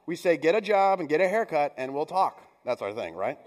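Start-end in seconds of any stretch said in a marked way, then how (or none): 0.4-2.4 put-on louder, blunt parent putting the kid in line; mock-stern dad order; gruff parent. Parents telling their grown kid to shape up, mock stern. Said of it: "But we say it like this".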